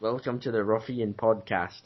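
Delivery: attempted UK accent. Repeating a friend's sentence in his accent, wobbly UK accent. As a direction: imitate a UK accent, drifting into Scottish. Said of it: "that was Scottish".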